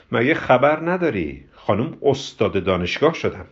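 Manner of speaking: slow mock question, dropping to a dry finish. Ghasem sneers about her becoming a professor, mocking. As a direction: tease with drawn-out mockery. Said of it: "با لحنی تمسخرآمیز گفت".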